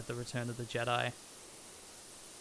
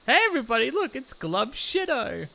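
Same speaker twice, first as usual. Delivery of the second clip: gurgling fish man croak; 11 semitones higher, 8 dB louder than usual. Acted. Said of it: "I'm a big Glub Shido fan".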